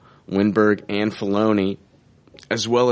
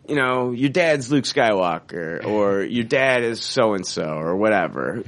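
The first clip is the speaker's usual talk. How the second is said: lightly voiced director briefing the star, slowing down; mild impression of a director casually revealing a secret; J.J. Abrams impersonation. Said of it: "that's my J J".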